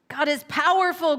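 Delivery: a hammed-up bear growl; the bear growls back at the robin, lightly voiced. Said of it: "growled the bear".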